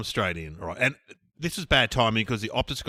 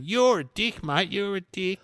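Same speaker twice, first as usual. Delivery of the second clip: arcing up; 7 semitones higher, slower than usual. Retold or imitated. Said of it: "the woman is arcing right up going".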